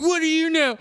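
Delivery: put-on high, loud bratty teenager whine; whiny teen yell. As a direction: throw a teenage tantrum at dad. Mocking teen yelling at father.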